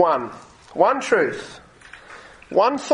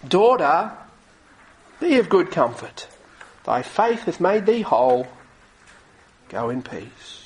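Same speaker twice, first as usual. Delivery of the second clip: tender; 4 semitones lower than usual. A narrator's reading. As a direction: speak it like a loving father. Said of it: "the tenderness with which Jesus spoke".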